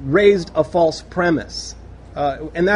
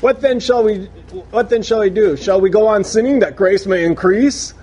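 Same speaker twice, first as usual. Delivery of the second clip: sarcastic question; 2 semitones higher, 3 dB louder than usual. Retold or imitated. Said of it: "It's almost sarcastic".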